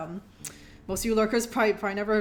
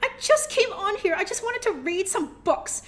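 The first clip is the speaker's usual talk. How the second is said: higher, playful whining; mock complaint; 7 semitones higher than usual. Streamer mock-complains to generous viewer, higher. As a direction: pretend to be put out.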